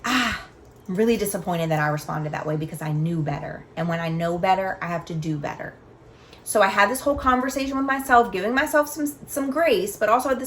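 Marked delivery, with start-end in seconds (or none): 0.0-5.7 self-compassion. Retold or imitated. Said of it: "I gave myself the compassion".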